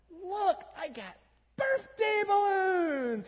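put-on high, slow, thrilled kid voice building to a shout; a three-year-old bursting with joy; excited toddler. Pastor voicing his son showing off birthday balloons, high excited shout. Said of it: "he goes".

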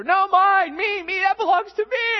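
put-on high, loud screech of a three-year-old; toddler shouting mine. Pastor imitating his toddler son yelling over a toy. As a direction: shriek it like a toddler grabbing a toy.

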